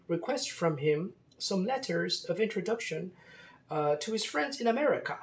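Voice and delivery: put-on high-pitched French accent throughout. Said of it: "with a French accent".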